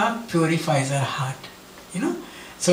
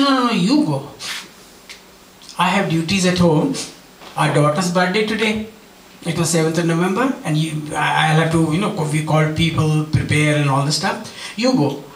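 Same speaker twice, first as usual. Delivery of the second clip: wife refusing. Retold or imitated. Wife refusing, retold quote.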